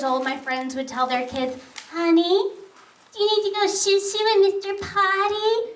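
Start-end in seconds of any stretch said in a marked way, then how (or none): 1.9-5.7 high, sugary parent voice; baby talk. Retold or imitated. Friends potty training their kids, mocking baby talk. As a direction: coo it mockingly like to a toddler. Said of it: "baby talk their kids".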